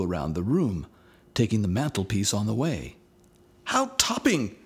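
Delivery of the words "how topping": high, thrilled exclamation; excited boy voice; boys' delight. A narrator's reading. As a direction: burst out with childish glee. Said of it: "said John and Michael".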